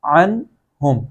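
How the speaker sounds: عن ہم with a simple, audible n; clear pronunciation. Shown as a demonstration. Teacher models the plain noon sound, clear n in عن ہم. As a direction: say عن with a clean n, unblended into ہم. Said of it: "وہی آواز اس کی نکالی جائے گی".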